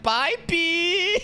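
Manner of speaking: high-pitched cartoon creature sign-off; Taco P. Reactor mimics the character leaving, high mascot voice. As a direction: imitate a squeaky little mascot. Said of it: "Taco P is like".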